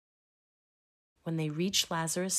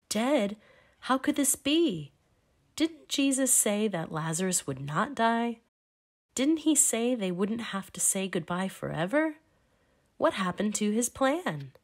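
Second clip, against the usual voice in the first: higher, louder stunned questions; shocked disbelief; 4 semitones higher, 4 dB louder than usual. Acted. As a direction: voice the disciples' alarmed disbelief. Disciples shocked at Lazarus' death.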